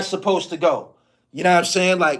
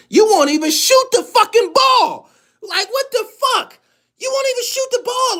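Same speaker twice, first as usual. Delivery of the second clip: incredulous high rant; 14 semitones higher than usual. Real, not acted. Ranting about the player's refusal to shoot, pitched way up in disbelief. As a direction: voice jumps much higher, disbelieving.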